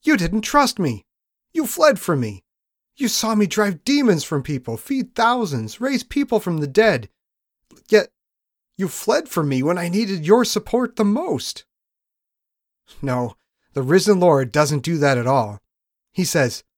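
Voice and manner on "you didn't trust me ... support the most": stern reproach. Retold or imitated. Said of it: "He could have dropped the hammer on them".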